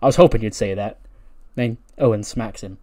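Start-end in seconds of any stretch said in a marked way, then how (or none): 0.0-1.0 grin and spring the trap; Kevin Owens. Retold or imitated. Kevin Owens accepting the fight with a loud pleased line. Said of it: "And then he's like".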